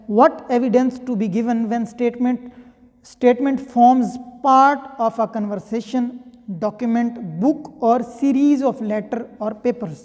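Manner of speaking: reading the law out slowly, word by word; measured, deliberate reading of a legal clause; slow statute reading. Shown as a demonstration. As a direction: dictate each phrase so students can follow. Reads statute text aloud slowly.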